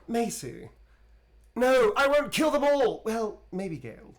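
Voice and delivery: high, loud vampire voice; playful vampire character voice; Astarion voice. Acted. Voicing Astarion for fan.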